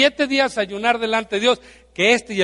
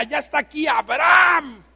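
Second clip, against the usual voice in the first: excited announcing; 5 semitones higher, 4 dB louder than usual. Pretend. Angels announcing Abraham's arrival.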